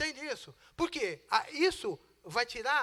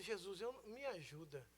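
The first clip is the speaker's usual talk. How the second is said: pleading prayer; 4 semitones lower, 13 dB quieter than usual. Retold or imitated. Desperate quiet prayer retold.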